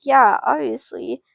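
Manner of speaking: a touch of upset retort; lightly voiced upset kid sister. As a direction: snap back, hurt and annoyed. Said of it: "she's upset".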